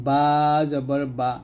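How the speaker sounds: slow "বা জবর বা", wet inner lips touching; slow letter demo. Shown as a demonstration. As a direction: say "বা" slowly with moist lips together. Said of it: "দুই ঠোঁটের ভিজা অংশ মিল করে উচ্চারণ করব". (ধীরে "বা জবর বা")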